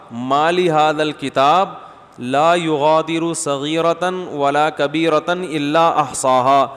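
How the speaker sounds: slow, chanted Arabic recitation; Quran recitation. Acted. Preacher reciting scripture to the congregation, chanted slowly. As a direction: intone the verse slowly and reverently.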